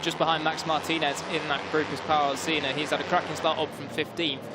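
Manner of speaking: brisk race commentary read; motorsport commentator. Acted. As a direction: call the race as it happens. Live play-by-play commentary.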